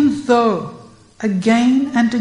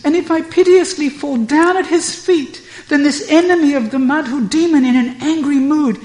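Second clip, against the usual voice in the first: high, loud, fast indignant protest; angry; 7 semitones higher, 5 dB louder than usual. Acted. Radha protesting angrily to Purnamasi, high and loud. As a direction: plead and protest hotly, pitched high. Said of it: "Radha angrily says".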